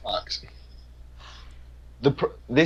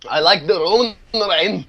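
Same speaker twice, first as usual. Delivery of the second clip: put-on Russian accent; 5 semitones higher than usual. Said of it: "the worst Russian accent".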